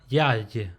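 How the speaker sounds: "ya" held, "y" closing the syllable; open then closed. Shown as a demonstration. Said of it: "how you'll pronounce the closed phonetic for ya".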